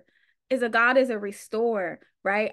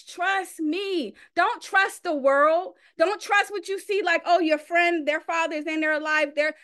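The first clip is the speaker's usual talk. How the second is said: a hint of God's patient voice; voicing God; 3 semitones higher than usual. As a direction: let God plead gently, trust me. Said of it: "all God wants is".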